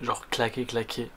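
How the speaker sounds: exhausted, low and slow; drained, barely any energy; sleep deprived. Real, not acted. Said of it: "Je commence à être claqué".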